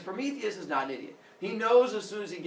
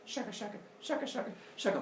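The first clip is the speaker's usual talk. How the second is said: mock stick rubbing; 5 semitones higher, 8 dB quieter, faster than usual. Rubbing fire sticks sound.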